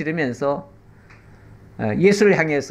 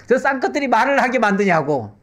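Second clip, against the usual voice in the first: indignant nobles; 5 semitones higher than usual. Retold or imitated. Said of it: "양반들이 난리가 났어요".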